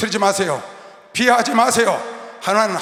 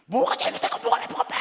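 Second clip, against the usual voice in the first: whispered retelling; 12 semitones higher, 3 dB quieter than usual. Retold or imitated. Retold argument.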